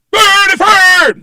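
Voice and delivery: high, slow shouted Swedish Chef gibberish; one last squealed mock-Swedish cry. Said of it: "I'm doing the chef from the Muppet Show".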